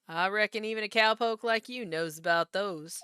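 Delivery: lightly drawled Southern cowboy accent. Shown as a demonstration. Actor demonstrating her Southern cowboy accent, lazy Southern drawl. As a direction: stretch the Southern vowels like a cowpoke. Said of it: "this is more drawly".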